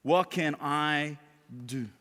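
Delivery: very slow, word by word; slow reflection. Real, not acted. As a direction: pose it as a measured question. Closing challenge, first reflective take.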